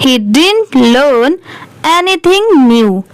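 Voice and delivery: very slow, word by word English reading; slow read-aloud. Shown as a demonstration. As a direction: read each word out slowly for learners. Reads the story aloud slowly. (धीरे-धीरे शब्द-शब्द पढ़ना)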